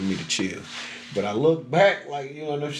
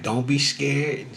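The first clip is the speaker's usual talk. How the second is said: soothing grandma; 3 semitones higher, much slower than usual. Retold or imitated. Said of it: "she like".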